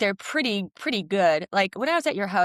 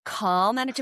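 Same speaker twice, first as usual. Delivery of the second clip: calm coaching voice; 5 semitones higher, slower than usual. Retold or imitated. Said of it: "he'll be like".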